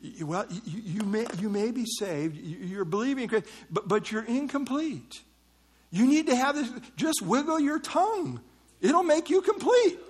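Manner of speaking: imitating a pushy believer. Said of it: "that's what they told me".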